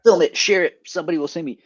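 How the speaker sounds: loud, high, eager urging; acted eagerness. Acts out his own eager reply.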